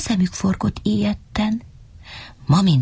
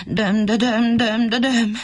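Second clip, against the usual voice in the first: moaning; 2 semitones higher than usual. Acted. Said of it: "csak jajgatott".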